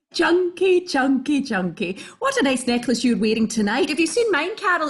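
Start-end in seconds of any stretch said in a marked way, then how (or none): 0.1-2.0 chunky fading down. Acted. Repeats word, falling away.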